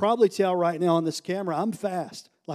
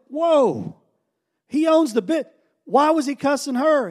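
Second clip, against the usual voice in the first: high-pitched, taken-aback reaction; retold shock; 7 semitones higher, 4 dB louder than usual. Leader learns he owns the business, shocked. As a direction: act out stunned disbelief, voice raised.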